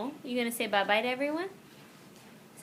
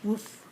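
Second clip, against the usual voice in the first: puppy woof; 6 semitones lower than usual. Shown as a demonstration. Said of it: "What does the puppy say?".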